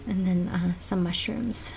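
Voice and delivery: unvoiced little whispered aside. Real, not acted. Whispering an aside to the viewers about the page. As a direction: drop to a whisper for the mushrooms.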